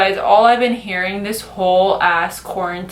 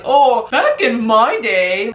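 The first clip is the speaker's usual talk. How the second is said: put-on old-timer; slower than usual. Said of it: "kind of like old school mentality".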